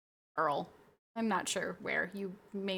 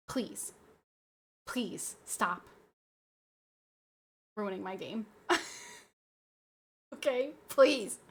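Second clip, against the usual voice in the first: mock pleading; slower than usual. Real, not acted. Streamer pleading with the game makers, slow whiny begging. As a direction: beg them, stretching the last please slowly.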